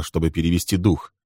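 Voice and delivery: ordinary delivery, nothing marked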